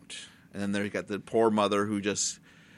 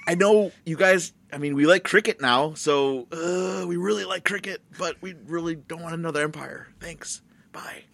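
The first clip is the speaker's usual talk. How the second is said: India voiced; 6 semitones higher than usual. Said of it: "India's like".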